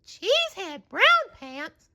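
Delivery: high, disbelieving question; can't believe the name; incredulous Sandy. A narrator's reading. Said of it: "said Sandy".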